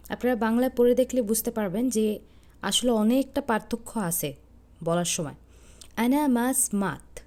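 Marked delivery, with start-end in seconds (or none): 6.0-7.2 slow, careful أنا ما سمعت with ma and samiʿt kept apart; slow Arabic teaching pronunciation. Shown as a demonstration. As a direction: sound out أنا ما سمعت clearly, syllable by syllable. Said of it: "আমি কীভাবে উচ্চারণ করছি".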